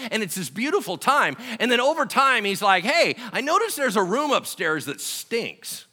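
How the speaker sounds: loud, high storytelling sermon; full-force preaching. Acted. Pastor telling the booklet story to the church at full force. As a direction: sell the picture with big energy.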